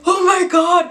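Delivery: high, loud oh my God; excited cry. Retold or imitated. Sister showing the ring box, excited high cry. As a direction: squeal the news. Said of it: "she's like".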